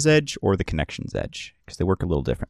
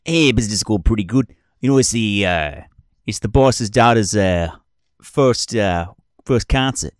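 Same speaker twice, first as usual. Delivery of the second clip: lightly voiced weasel man, slightly raised; weasel doorman; 4 dB louder than usual. Skeeve telling Raul about the boss's daughter's concert, lightly voiced. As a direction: chat like a shady doorman, lightly put on.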